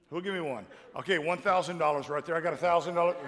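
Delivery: auctioneer's calling voice. Shown as a demonstration. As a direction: call bids like an auctioneer. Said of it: "I am a licensed auctioneer".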